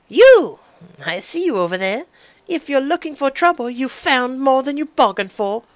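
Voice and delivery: loud, high threatening yell; shouting. Acted. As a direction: challenge intruders at full volume. Ambusher shouts at the group.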